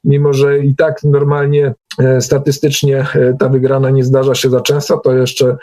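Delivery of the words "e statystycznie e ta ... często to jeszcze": normal talking voice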